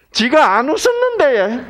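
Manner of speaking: high-pitched Gyeongsang woman's denial; Gyeongsang dialect. Acted. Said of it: "경상도 말로 합시다".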